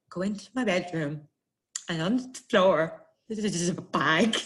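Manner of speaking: nervous jaw-shake imitation; teeth chattering. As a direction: act out a shaking jaw, struggling through consonants. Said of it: "I couldn't talk through it".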